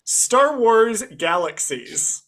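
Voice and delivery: slow, mock-grand sarcasm; sarcastic. Real, not acted. Podcast host naming a cash-grab game, sarcastic. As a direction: announce it with drawn-out sarcastic pomp. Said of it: "I say that sarcastically".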